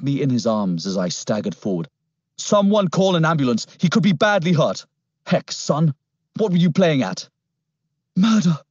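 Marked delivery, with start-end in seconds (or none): 2.4-7.3 higher, urgent officer's voice; concerned policeman. A narrator's reading. 8.2-8.6 out of breath, gasped word; panting. A narrator's reading. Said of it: "I panted".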